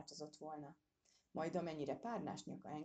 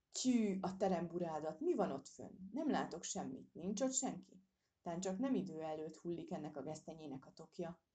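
grumbling to himself. Acted. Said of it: "Így dörmögött magában az őr".

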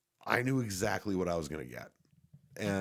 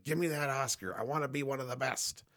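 higher, put-on pleading of an awards-hungry actor; mock thirsty actor; 4 semitones higher than usual. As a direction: beg for the prize, sending up a desperate actor. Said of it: "Thirsty ass acting".

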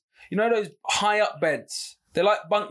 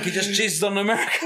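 laughing punchline; 3 semitones higher than usual. Real, not acted.

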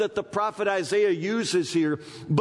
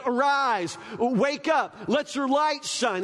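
a touch raised prophetic command; prophet's call; 5 semitones higher, slower than usual. Retold or imitated. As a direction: proclaim it like the prophet. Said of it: "the prophet says".

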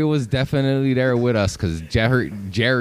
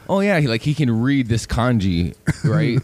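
put-on Korean accent; 3 semitones higher than usual. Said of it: "with a Korean accent".

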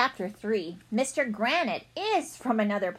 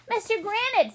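joyful reunion cry; 12 semitones higher than usual. Acted. Emotional alien reunion greeting.

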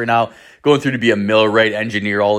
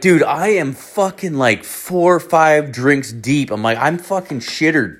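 retold drunken protest; 5 semitones higher than usual. Teller to his buddy who needs a witness, exasperated protest. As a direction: plead that you're in no state.

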